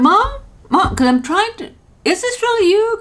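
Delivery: high, anxious calls for mom; anxious calling. Retold or imitated. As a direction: plead to know it's her. Calling mother on scam call.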